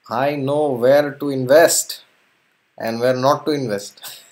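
boastful. Acted. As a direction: boast like a shrewd trader. Kewat boasting as businessman.

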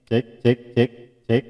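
half echo. Shown as a demonstration. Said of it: "Ini yang setengah echo".

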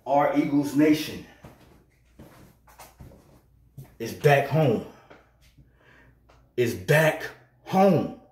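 muffled by mask. Real, not acted. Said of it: "Let me take this mask off real quick".

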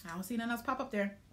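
talking after a coffee sip; sipping coffee. Real, not acted. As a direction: speak with coffee in mouth. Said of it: "let me sip my coffee".

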